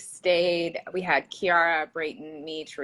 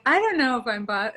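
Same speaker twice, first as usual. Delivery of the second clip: innocent husband; 5 semitones higher, 3 dB louder than usual. Retold or imitated. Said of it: "totally in his innocence".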